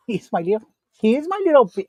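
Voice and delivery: high-pitched cooing over a little dog; doting pet talk. Real, not acted. Owner showing off the dog to viewers, doting high coo.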